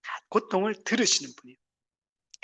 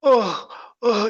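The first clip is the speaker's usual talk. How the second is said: groan; 3 semitones higher, 3 dB louder, much slower than usual. Shown as a demonstration. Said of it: "기도할 힘도 없어가 그냥 신음소리만".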